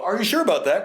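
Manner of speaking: mock lawyer challenge. Lawyer challenging the officer, high and needling. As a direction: needle the witness. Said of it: "'cause then they go".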